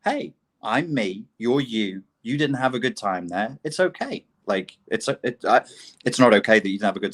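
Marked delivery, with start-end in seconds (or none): 0.0-4.3 calm acceptance. Retold or imitated. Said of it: "rather than just saying".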